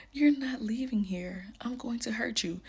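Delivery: slow, hushed threat; menacing whisper. Retold or imitated. Man whispering a threat to her, menacing. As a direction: breathe the threat out slowly. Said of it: "He literally said it just like that".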